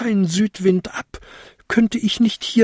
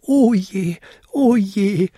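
high-pitched little lament; wailing; 9 semitones higher, slower than usual. A narrator's reading. Goblin falling to earth, wailing. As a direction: bemoan it in a high voice. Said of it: "jammerte er".

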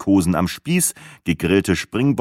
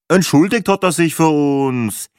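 put-on miffed Viennese accent, a bit higher; a Viennese husband annoyed at the narrator; huffy Viennese; 6 semitones higher, 3 dB louder than usual. A narrator's reading. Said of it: "ebenso verschnupft wie wienerisch".

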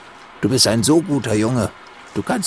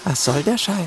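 mocking echo; 4 semitones higher than usual. Captor mocks the trapped boy's words, taunting. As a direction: mimic his words with sneering glee.

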